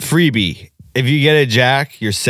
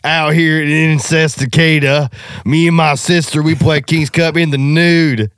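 hick voice; 6 semitones higher, 3 dB louder than usual. Pretend. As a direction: ham up a rural local. Mocking a rural county local.

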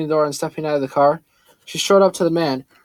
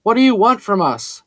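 higher, louder call across to the man; yelled out; 6 semitones higher, 4 dB louder than usual. A narrator's reading. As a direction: shout it out the car window, demanding. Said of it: "yelled out".

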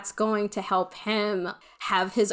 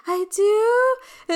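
put-on surprised kid; 13 semitones higher, 5 dB louder than usual. Child surprised by compliment.

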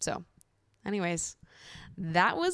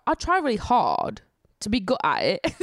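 amateur put-on British accent; British accent attempt; 3 semitones higher, 5 dB louder than usual. Shown as a demonstration. Vlogger trying out the accent she admires, shaky British accent attempt. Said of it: "wish I was good at it".

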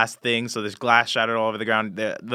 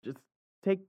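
much higher sweet reply; sweet high woman voice; 10 semitones higher, 3 dB quieter than usual. Acted. Hotel worker telling them to take their time, high and sweet. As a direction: answer sweetly through the door. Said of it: "she's like".

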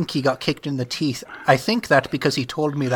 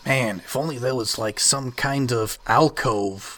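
exaggerated cartoon intonation. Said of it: "Why are you talking like that?".

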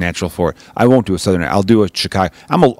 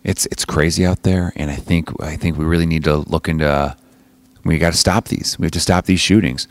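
lightly voiced other person, lower and softer; someone else's voice; 5 semitones lower, 3 dB quieter than usual. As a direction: play the subdued side of a debate. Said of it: "doing the voice of someone else".

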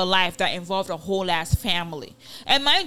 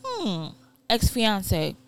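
pointed pondering; 3 semitones higher, much slower than usual. Acted. Co-host adding up the gossip, pointedly pondering. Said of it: "it does make you think".

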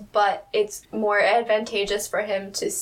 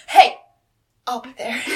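calling out; 5 dB louder than usual. Retold or imitated. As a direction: imitate someone calling out loudly. Acting out a character calling out.

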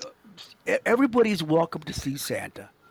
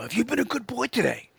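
high, jolly Santa question; 9 semitones higher than usual. Shown as a demonstration. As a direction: ask a child as a merry Santa. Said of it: "you gotta sound jolly".

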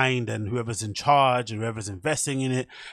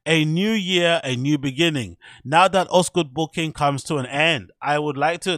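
higher-pitched mock German accent reading; 3 semitones higher, 5 dB louder than usual. Reading a DJ's caption aloud, mock German accent. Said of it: "my German accent".

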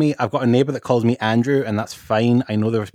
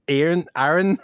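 Aaron said with a Scottish accent, a bit higher; 5 semitones higher than usual. Shown as a demonstration. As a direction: show how Aaron sounds in a Scottish accent. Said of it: "cannot be said in a Scottish accent".

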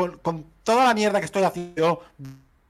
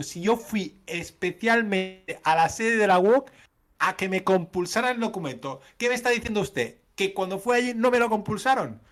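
protesta indignada; 7 semitones higher than usual. Retold or imitated. Discusión indignada por teléfono.

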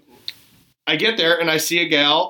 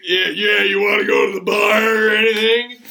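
acting all cool. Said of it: "talking like that".

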